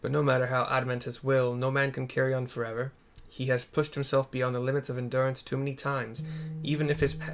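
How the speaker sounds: a hint of a solemn old warrior; lightly voiced grave lord. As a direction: speak it gravely, like a weary lord. Streamer voices game character.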